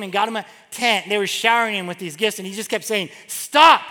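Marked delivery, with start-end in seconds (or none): 3.3-3.8 loud, higher-pitched irritated protest. Retold or imitated. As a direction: cut them off with a loud, exasperated stop. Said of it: "he was getting irritated".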